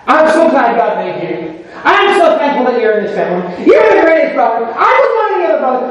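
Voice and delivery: high, rising to a shout of praise; gushing praise, building. Retold or imitated. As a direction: pour it on, bigger each line. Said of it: "I just had him say that".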